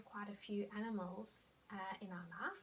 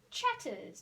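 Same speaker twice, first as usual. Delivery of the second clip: much higher, monkey-like; high chatter; 12 semitones higher, 4 dB louder than usual. Shown as a demonstration. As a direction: pitch it up like a monkey. Monkey sound word.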